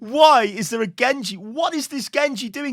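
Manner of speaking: high, slow cries of disbelief; exasperated disbelief. Real, not acted. Coach watching a Genji feed, exasperated disbelief. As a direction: wail it in real exasperation, drawing words out.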